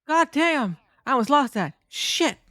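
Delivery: high, relieved swearing after a near loss; relieved outburst. Retold or imitated. Almost lost the match, blurting out relief, excited. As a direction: let the relief burst out, up high. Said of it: "how relieved I am".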